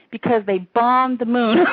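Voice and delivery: real laughter breaking into the punchline; laughing joke. Real, not acted. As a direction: let the laugh leak into the last words. Jokes about own theory, laughs.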